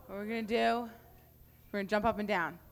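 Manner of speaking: loud, high hype-man call, getting the room jumping; hype shout. Real, not acted. Youth leader pumping up the audience, shouting with excitement. Hyping up the crowd to jump.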